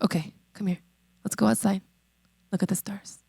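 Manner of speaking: soft, hushed and gentle; gentle reassuring God. Retold or imitated. God gently invites doubting Abram to look, softly. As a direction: coax him outside softly, like a patient father.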